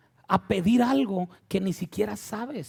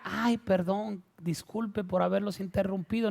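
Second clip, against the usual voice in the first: mock apology; 4 dB quieter than usual. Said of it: "Pero él decía".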